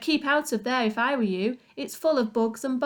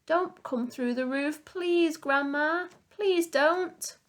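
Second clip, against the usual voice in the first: put-on higher, begging young boy; pleading boy; 7 semitones higher, slower than usual. A narrator's reading. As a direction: plead desperately with grandma. George pleading.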